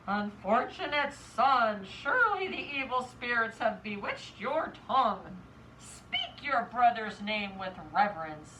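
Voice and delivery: low, measured scolding; storybook mother laying down the law; stern mother. Acted.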